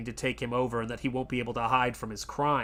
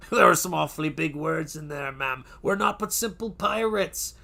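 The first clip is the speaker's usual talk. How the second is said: higher, lightly put-on pirate voice; a sly, mocking pirate reply; imitating a pirate; 3 semitones higher than usual. Host retells a pirate's mocking answer, light pirate voice. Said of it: "And he goes".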